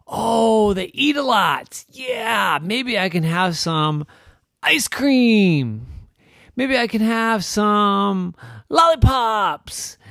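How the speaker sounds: high, loud and slow dreamy wishing; excited ideas. A narrator's reading. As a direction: savor each tasty idea.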